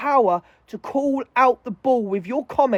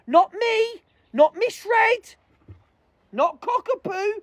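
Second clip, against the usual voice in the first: indignant denial; 9 semitones higher, slower than usual. Real, not acted.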